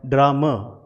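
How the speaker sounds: ड्रामा ending in a short neutral "uh"; pronunciation demo. Shown as a demonstration. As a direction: say ड्रामा as "DRAH-muh". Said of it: "इसे बोला जाएगा".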